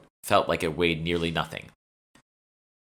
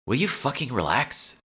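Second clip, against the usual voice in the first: higher, irritated snarl; 8 semitones higher than usual. Acted. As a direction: snap at her in irritation. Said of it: "I said with a snarl".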